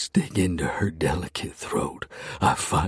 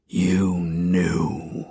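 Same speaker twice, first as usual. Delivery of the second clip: growl; 4 dB louder than usual. Acted. Hero to Bethany, a rasping whispered growl. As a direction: growl it through your teeth. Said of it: "I growl".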